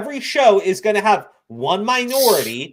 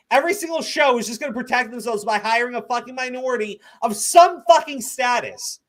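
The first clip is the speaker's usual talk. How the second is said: angry rant; 6 semitones higher than usual. Real, not acted. Ranting at critics.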